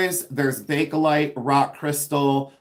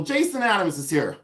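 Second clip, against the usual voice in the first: higher-pitched mock announcement; Pamela Blanchard; 4 semitones higher than usual. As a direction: lightly imitate a screechy friend announcing a guest. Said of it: "she screeches and she goes".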